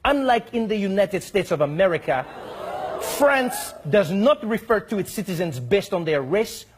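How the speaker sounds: a hint of a prim French envoy; mock diplomat reading. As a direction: read it like a stiff official letter. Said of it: "he says".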